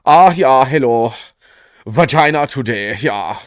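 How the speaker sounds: lightly put-on German accent, registry clerk; hammed-up German accent, breezy and quick; mock German accent. German accent of someone re-registering their gender every morning. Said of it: "I can't do a German accent".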